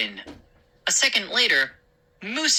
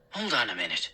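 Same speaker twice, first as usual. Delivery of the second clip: low, soft, absorbed; murmured; 6 semitones lower, 6 dB quieter, much faster than usual. Acted. Father peering out window, low murmur. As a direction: mumble while still looking. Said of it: "Dad murmured".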